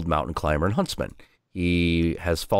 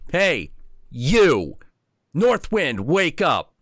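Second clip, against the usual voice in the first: put-on kid calling out; 8 semitones higher, much slower than usual. Little Viking boy waking the North Wind, calling out. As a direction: yell up at the sleeping giant. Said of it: "and he's like".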